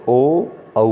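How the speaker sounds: ओ and औ said with rounded lips. Shown as a demonstration. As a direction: round the lips clearly on ओ, then औ. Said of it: "औष्ठ गोल होते हैं, ऐसे".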